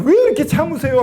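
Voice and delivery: high-pitched anguished question; pained plea. Retold or imitated. Believer feeling Jesus' nail wounds, high pained plea. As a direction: cry out as though feeling his pain. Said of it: "그 아픔이 느껴지면서".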